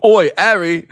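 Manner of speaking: loud, high laddish call of Oi, Harry; Ron Weasley impression. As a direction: bellow it like a middle-aged Ron hollering down the hall. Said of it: "fat middle-aged Ron Weasley being like".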